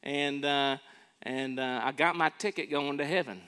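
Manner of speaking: high flippant voice of a careless believer; mock someone who takes grace lightly. Preacher mocking a careless believer before the church, flippant. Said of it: "is it like".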